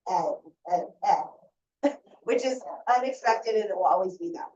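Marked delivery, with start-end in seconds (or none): 0.1-1.9 "eh" said as a short e sound, repeated. Shown as a demonstration. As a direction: model the short "eh" of "says". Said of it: "it always says".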